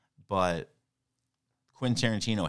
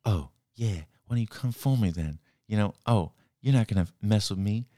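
lightly put-on cool swagger, a shaky take on Jamie Foxx. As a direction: play it cool and tough, only half landing the voice. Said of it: "That was terrible black voice".

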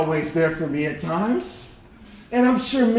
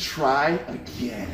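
slow, soft, drawn-out words; hushed, deliberate message; ominous readout; 3 semitones lower, 5 dB quieter, much slower than usual. Retold or imitated. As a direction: let each word land slowly, like bad news. Reads the dream's dreaded message.

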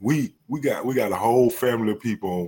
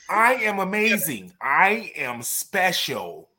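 chirpy little white guy affirmation, starting high; drawn-out, earnest little-white-guy voice; 6 semitones higher, slower than usual. Shown as a demonstration. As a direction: play a little white guy pumping himself up. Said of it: "sound like a little white guy".

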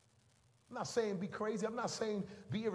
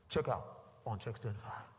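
low flat intercom call; cashier calling out; 10 semitones lower than usual. Retold or imitated. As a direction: call the lane like over a store speaker.

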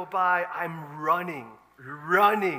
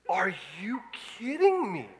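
laughing whisper. Retold or imitated.

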